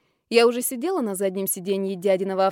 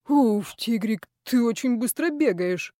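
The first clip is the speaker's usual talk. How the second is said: lightly voiced panting boss; slower than usual. Boss panting after chasing her.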